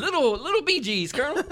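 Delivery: high, loud mock falsetto; laughing high-pitched jibe; teasing falsetto. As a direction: tease in a squeaky band-style falsetto pitch. Teasing with a band's falsetto.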